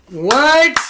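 sudden loud high what; shouted what. Real, not acted. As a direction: blurt it out in shock.

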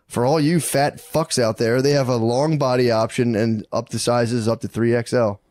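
sales copy delivered to the audience; podcast ad read. Real, not acted. Host pitches shirt sizes to big listeners, ad read.

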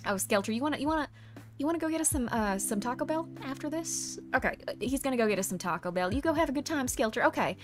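put-on Southern US accent. Streamer grants a viewer's Southerner voice request, Southern accent. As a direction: chat away in a light Southern twang. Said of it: "start talking like this".

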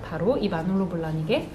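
usual speaking voice

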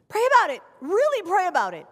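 loud, high preaching call; the preacher lifting her voice to urge the church; urgent exhortation. Real, not acted. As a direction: press it on them, really pray. Preacher urging the congregation.

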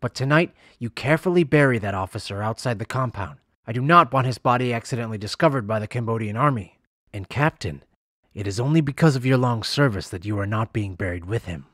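a slightly altered voice for the commanding general; cold threat to his captain; stern general. Acted.

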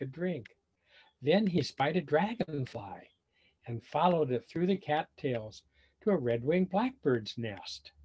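put-on lively read-aloud for children; animated storybook reading; story narration. A narrator's reading. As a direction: tell it like a picture book to kids. Reading picture book aloud.

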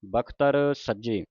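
slow, careful ਬਖਤਰ ਸੱਜੇ as "bakh-tar sajje"; exact model reading. Shown as a demonstration. Teacher models it for students, ਬਖਤਰ said slowly and exactly. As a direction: sound each syllable of ਬਖਤਰ slowly. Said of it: "ਇਹਨੂੰ ਬਖਤਰ ਬੋਲਣਾ ਹੈ".

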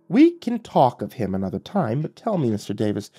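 a hint of a taunting demon; lightly voiced devil, cool and mocking; Lucifer's voice. Lucifer questions Davis.

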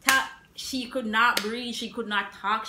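slow, loud, dragged-out emphasis; exaggerated breathless. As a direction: stretch it out, overwhelmed. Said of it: "she was dying".

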